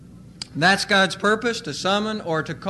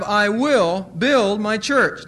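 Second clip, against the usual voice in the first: "I will build my church" said slowly; slow scripture quote; slow, deliberate quote; 3 dB louder, slower than usual. Shown as a demonstration. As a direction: read it slowly, weighing each word. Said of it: "Now the word "build".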